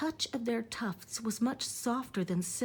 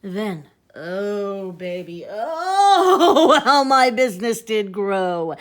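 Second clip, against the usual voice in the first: loud, laughing triumph; gleeful laughing boast; 11 dB louder, slower than usual. Acted. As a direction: crow with laughter over the profits.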